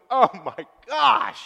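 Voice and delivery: a slow, loud shout of shock; shocked cry. Retold or imitated. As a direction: cry out in horror at the news. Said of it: "Kid next door is going".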